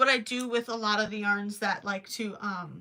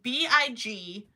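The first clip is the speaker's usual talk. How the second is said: spelling out letters; 2 semitones lower, slower than usual. Shown as a demonstration. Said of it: "It's spelled".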